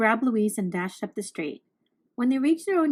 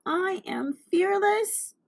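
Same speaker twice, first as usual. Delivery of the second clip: shaky self-reassurance; 8 semitones higher, slower than usual. A narrator's reading. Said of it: "tried to convince herself".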